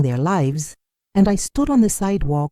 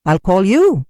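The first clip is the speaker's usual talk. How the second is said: dismissive; 4 semitones higher, 5 dB louder than usual. Acted. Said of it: "sounded like a dismissal rather than a promise".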